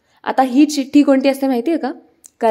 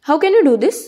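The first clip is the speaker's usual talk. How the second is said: a higher, louder rebuke in English; retold telling-off with a raised voice; mild scolding; 5 semitones higher, 4 dB louder, much slower than usual. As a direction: scold her for the wrong treatment. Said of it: "जो सुकन्याला ओरडत असतो".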